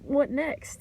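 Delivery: high, breezy imitation of the sister; casual sister. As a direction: toss it off like it's no big deal. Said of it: "she was like".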